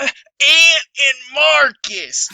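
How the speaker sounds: shouting. Acted. Character declares target.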